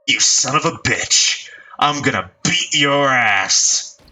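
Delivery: slow, snarled mock threat; lightly voiced angry punk; snarling threat. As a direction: growl it like an animal. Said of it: "Susumu snarled like an animal".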